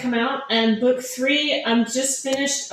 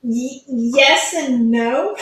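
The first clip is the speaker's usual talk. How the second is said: slow, hesitant answer with a real laugh; 4 dB louder, much slower than usual. Real, not acted. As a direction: laugh it off while deciding. Hesitant answer about next books.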